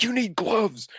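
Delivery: high-pitched panicky imitation; mock freaking out. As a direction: fret in a high voice, mimicking the frightened fiance. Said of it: "is freaking out inside the house".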